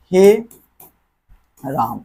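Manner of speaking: हे ... राम, drawn out and fading; drawn-out call. Shown as a demonstration. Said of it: "जैसे कि हम लोग यहाँ पे बोलते हैं".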